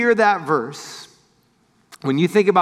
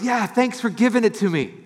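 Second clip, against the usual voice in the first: laughing; 4 semitones higher than usual. Retold or imitated. Friend teasing, laughing reply.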